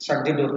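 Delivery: "Shut the door" with a gentle drop in pitch; falling tone. Shown as a demonstration. Teacher repeating the example of commands, falling tone on "Shut the door". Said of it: "with falling tone".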